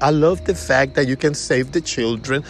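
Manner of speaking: mock emotional enthusiasm; imitating an emotional, gushing prospect; emotional spring type. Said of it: "a spring and they very emotional".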